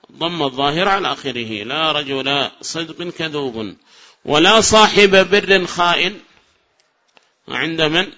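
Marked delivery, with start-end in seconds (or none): 1.6-3.8 slow, softer example; slow hushed reading; slow quiet repeat. Shown as a demonstration. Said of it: "repeats example quietly". 4.2-6.2 slow, louder example; slow formal reading; slow recital. Shown as a demonstration. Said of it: "recites new example".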